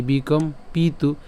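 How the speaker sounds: বিকম পিতু slowly as "bikom-pitu"; slow, deliberate বিকম পিতু; pronunciation demo. Shown as a demonstration. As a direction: model বিকম পিতু in two careful chunks. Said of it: "তাহলে পিতু".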